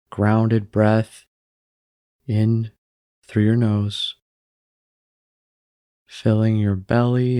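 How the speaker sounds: unhurried meditation guide with long pauses; calm, even delivery, leaving room to breathe; guided meditation. Acted. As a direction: guide them gently into stillness, phrase by phrase.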